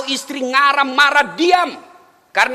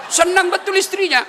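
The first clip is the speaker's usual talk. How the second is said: excited emphasis; 9 semitones higher than usual. Shown as a demonstration. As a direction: burst out "Senang betul istrinya" with gusto.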